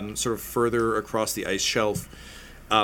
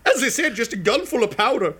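gnome voice; 10 semitones higher, 4 dB louder than usual. Acted. Gnome asking the knight to lift the visor, high. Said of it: "She's like".

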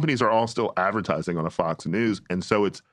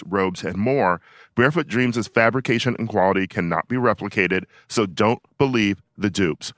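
ad read. Acted. Podcast host reads a sponsor spot, upbeat ad read. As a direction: sell the blanket like a host ad.

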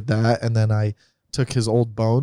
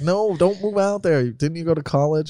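mock worried parents; 5 semitones higher than usual.

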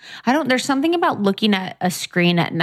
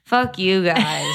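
slow, laughing mock curse; playful laughing swear; much slower than usual. Real, not acted. Teased, laughing at friends.

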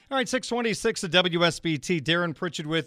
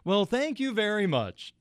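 Vin Scully voice; 4 semitones higher than usual. Retold or imitated. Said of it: "he did it in the voice".

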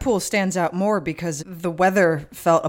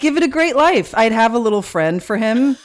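defensive; 3 semitones higher, 4 dB louder than usual. Real, not acted. Defends elephant plan, friends tease.

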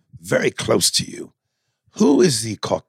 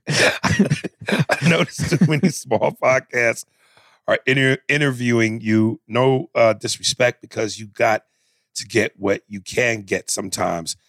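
Louis Anderson voice. Acted. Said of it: "Louis Anderson has something to say".

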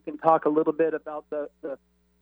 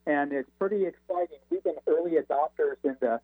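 breaking up over a phone line; faint, cutting-out phone call; crackly cordless phone. Real, not acted. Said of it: "you're fading in and out a little bit".

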